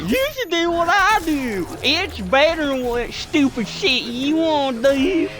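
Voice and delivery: high mock redneck, slowing down; Southern hick voice. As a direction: lecture him like a smug hick. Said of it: "you're like".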